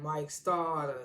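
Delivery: "Starter" said slowly with an open "ah" ending; slow, drawled "Starter" in imitation; catchphrase imitation. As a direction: stretch out "Starter" like a name to boast of. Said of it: "his name was, like".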